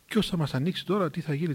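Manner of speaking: subdued, anxious wondering; worried musing. Retold or imitated. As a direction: fret quietly, as if to oneself. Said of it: "τι ανησυχούσε".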